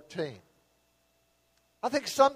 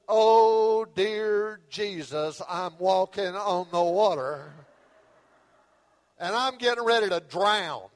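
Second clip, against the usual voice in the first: mock panic; slower than usual. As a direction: realise you're sinking, half-comic fright. Peter panics as he sinks.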